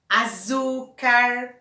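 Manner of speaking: açúcar, slow, with the middle syllable drawn out; stress on ÇÚ. Shown as a demonstration. Teacher gives an example of graves, stressing the middle of açúcar. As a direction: lean on the çú of açúcar. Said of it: "tem acento no zu".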